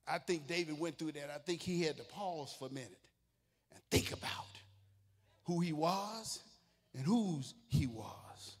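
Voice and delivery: hushed reflection. Acted. Preacher quietly pictures David pausing, hushed. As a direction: pull them in close, barely above a breath.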